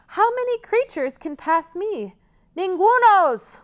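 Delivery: high, loud mocking troll. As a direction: boom it out like a grumpy troll. Troll questions and answers.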